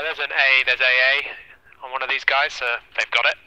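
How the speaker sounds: loud urgent callout. Real, not acted. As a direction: call it out over gunfire.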